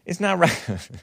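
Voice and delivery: high mock-pleading immigrant girl voice; mocking accented whine. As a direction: pitch it up high and drag it out, mocking. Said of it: "Am I being racist by talking like that?".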